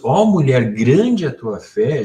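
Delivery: mildly awed quote, swelling on each phrase; amazed admiration. Retold or imitated. Retelling Jesus's words to the woman, mildly amazed. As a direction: quote it with a touch of marvelling. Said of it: "Jesus ficou espantado, num bom sentido".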